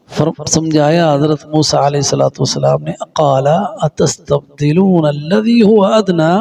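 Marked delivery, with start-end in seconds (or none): 3.1-6.3 slow recitation. Shown as a demonstration. Recites verse in lesson.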